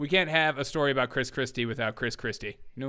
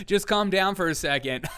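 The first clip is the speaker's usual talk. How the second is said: mock pleading; 5 semitones higher than usual. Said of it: "pleads with crowd".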